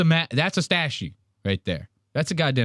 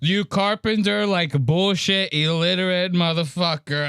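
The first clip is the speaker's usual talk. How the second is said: imitating the caller; 4 semitones higher than usual. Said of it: "He called him a carpetbag piece of shit".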